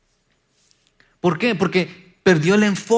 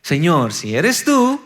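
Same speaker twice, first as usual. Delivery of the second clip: daring plea; 4 dB louder, slower than usual. Retold or imitated. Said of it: "Pedro se atreve y dice".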